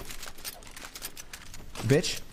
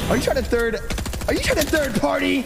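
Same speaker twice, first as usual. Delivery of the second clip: mock yelling; 9 semitones higher than usual. Yelling at third party.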